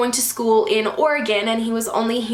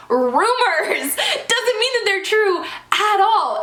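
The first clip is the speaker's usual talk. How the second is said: laughing; 7 semitones higher, much slower than usual. Real, not acted. Laughing off rumors about her.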